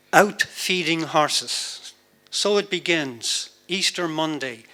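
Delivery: measured narrative verse, phrase by phrase; poetry reading. Acted. Poet tells audience of the 1916 Rising, measured poetry reading. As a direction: recite it deliberately, pausing at line breaks. Reads poem about 1916.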